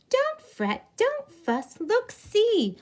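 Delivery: squeaky mouse. Acted. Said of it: "Mouse squeaks".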